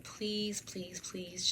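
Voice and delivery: soft, breathless please, please, please; whispered pleading. Retold or imitated. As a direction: beg him quietly to stop pressing. Begging the pharmacist to stop.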